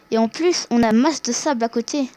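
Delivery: talking with something in the mouth; mouth full. Real, not acted. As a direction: speak around an object held in the mouth. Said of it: "si j'ai une voix comme si j'avais un appareil dentaire".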